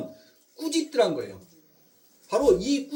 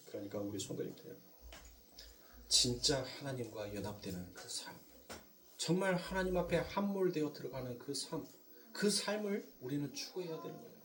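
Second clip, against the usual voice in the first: hushed earnest appeal; 6 semitones lower, 14 dB quieter than usual. Real, not acted. Preacher urging the congregation toward union with God, hushed and earnest. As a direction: drop low and soft, earnest.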